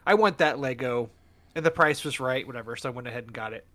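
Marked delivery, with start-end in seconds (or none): 0.1-1.1 eager wanting. Retold or imitated. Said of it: "I'm like".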